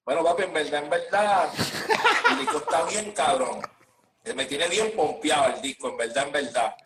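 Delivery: lightly put-on Puerto Rican accent, casual interview talk; a hint of mock Puerto Rican accent, laughing through it. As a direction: play a Venezuelan artist faking a boricua accent in an interview. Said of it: "una entrevista así como si fueras boricua".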